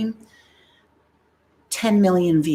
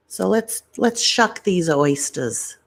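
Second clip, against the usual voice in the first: slow mock Boston accent; Boston impression with dropped R's; slower than usual. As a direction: drag it out in imitation Boston. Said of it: "It's exactly how he talks".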